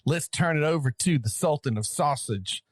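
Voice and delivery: grand title roll, slowing at the end; playful ring-announcer build; mock announcer intro. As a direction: introduce a champion with tongue in cheek.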